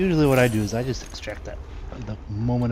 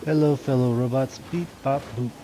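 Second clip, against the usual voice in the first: robot voice; 2 semitones higher than usual. Pretend. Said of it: "we'll just pretend to be a robot".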